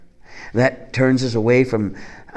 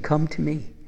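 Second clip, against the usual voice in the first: tender invitation; 5 semitones higher than usual. Retold or imitated. Preacher voicing Jesus gently calling the weary to come. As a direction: coax them gently to come.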